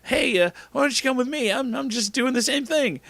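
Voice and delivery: high, hesitant friendly invitation; smiling. A narrator's reading. Boy inviting girl along, smiling high voice. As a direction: invite with a smile, high-pitched. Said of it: "still smiling".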